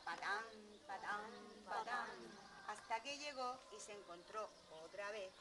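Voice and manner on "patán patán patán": plodding patán steps, held back; medium hoofbeats. A narrator's reading. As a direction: imitate middling hooves crossing a bridge. Medium goat's hooves on the bridge.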